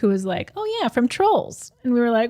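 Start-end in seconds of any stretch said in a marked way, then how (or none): 0.6-1.7 put-on high, slow kid voice; a lightly voiced little girl. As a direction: play the little girl, drawn out.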